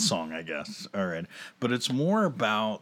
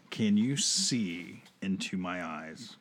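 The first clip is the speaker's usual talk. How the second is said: sultry reading. Shown as a demonstration. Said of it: "read the lyrics in my sultry voice".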